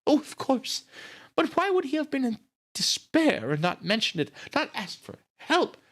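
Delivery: very high-pitched, distressed questioning; grieving sister, agitated. A narrator's reading. Nita asks why Brad never mentioned despair, agitated. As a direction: plead for answers in a high character voice.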